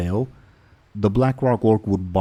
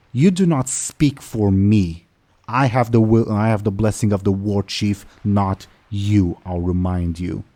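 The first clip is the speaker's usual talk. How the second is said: indignant orc; 4 dB louder than usual. Acted. Orc captain rebukes the other orc over command, mildly indignant. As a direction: assert rank forcefully, easing off at the end.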